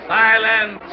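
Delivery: loud, sharp call for silence; commanding shout. Acted. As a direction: cut the chatter dead with one word. Showman silences noisy crowd.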